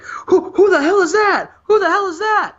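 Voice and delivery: high, mock shocked crowd cry; a crowd gasping who is that. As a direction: yelp it like a stunned audience. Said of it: "everyone's like".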